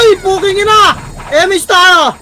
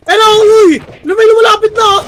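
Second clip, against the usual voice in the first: excited alarm; 4 semitones higher, faster than usual. Real, not acted. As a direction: warn the team the enemy is closing in. Enemy approaching, alerting team.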